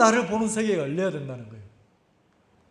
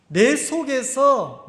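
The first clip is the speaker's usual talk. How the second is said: ordinary delivery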